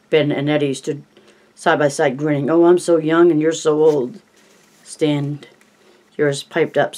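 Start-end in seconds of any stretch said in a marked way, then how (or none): 2.5-4.2 lightly crooned like a famous singer; a hint of a crooner; a crooner impression. Stan crooning to the group as a famous singer, lightly. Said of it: "eerily accurate Paul Anka imitation".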